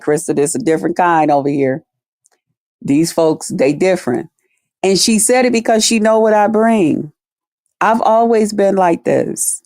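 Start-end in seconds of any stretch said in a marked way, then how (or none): 0.0-4.3 real nice. Retold or imitated. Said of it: "And she told me real nice".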